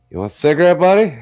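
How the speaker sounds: a hammed-up dad offering a smoke; playful high dad voice; imitating dad.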